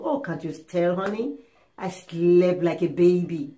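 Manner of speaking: slow down and coo it sweetly; sweet talk. Acted. Satisfied wife answering husband in the morning, sweet. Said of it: "She'll be telling you sweet words".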